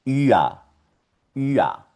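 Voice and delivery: "ua" said as a rounded ü gliding into A; ü-R sound demo. Shown as a demonstration. Teacher showing how U umlaut with R sounds, clear "ua". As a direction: model "ua" as one falling glide, ü to A. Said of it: "va a sonar".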